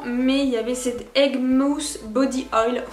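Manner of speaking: product name read slowly in a mock English accent; accent anglais. Real, not acted. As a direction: roll the English brand name with an exaggerated English accent. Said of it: "magnifique accent anglais". (nom anglais lu lentement avec un accent anglais exagéré)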